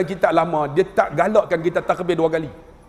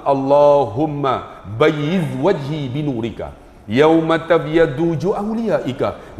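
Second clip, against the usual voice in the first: slow, devout recited prayer; prayer recitation; 4 semitones lower than usual. Acted. Preacher recites the wudu prayer to the congregation, slow and devout.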